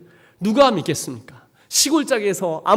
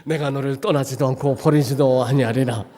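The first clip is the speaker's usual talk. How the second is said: solemn God voice; 5 semitones lower than usual. Retold or imitated. Voicing God.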